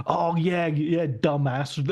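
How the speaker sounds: slow, sneering dismissal; mock the smug critics, dragging it out; sarcastic mock. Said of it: "as if we didn't know".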